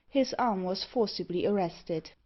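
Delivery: usual speaking voice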